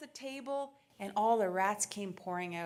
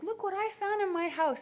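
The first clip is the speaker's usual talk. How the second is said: higher, louder imitation of mom presenting a find; mock show-and-tell; 10 semitones higher, 5 dB louder than usual. Mom holding up a rat to officials, mock show-and-tell. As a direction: announce it high and loud, as mom did.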